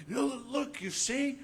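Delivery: high, eager "look, you see"; a hint of giddy triumph; excited mock believer. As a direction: show it off like a thrilled child. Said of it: "then we're like".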